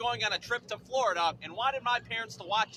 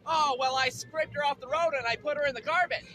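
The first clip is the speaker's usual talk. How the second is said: lightly put-on higher lady voice; neighbor lady; 4 semitones higher, 4 dB louder than usual. Neighbor describing the accident, lightly voiced lady. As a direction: report it as the neighbor, voice lifted. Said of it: "the neighbor lady comes up to me".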